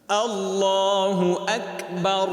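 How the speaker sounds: Allahu Akbar drawn out slowly and melodically; slow tuneful call of Allahu Akbar; slow drawn-out takbir. Shown as a demonstration. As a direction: stretch আল্লাহু long and lilting. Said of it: "তাকবীর চলবে কার নামে?".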